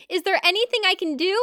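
ordinary talk

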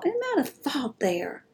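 whispered musing. Real, not acted. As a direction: breathe it as an aside. Musing aside.

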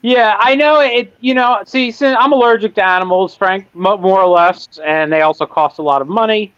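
animal puppet voice. Pretend. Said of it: "I'm still talking with my animal voice".

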